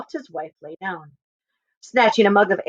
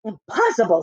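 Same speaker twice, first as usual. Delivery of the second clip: less confident; 2 semitones higher than usual. Acted. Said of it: "a little less confident this time".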